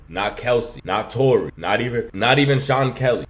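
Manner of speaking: rising outrage, punching each name; heated rant. Real, not acted. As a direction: hammer home that nobody backs her story. Commentator ranting against the testimony.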